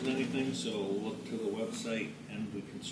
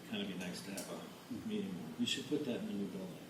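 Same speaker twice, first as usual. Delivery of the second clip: sarcastic; 2 semitones lower, 5 dB quieter than usual. Real, not acted. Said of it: "That was sarcasm".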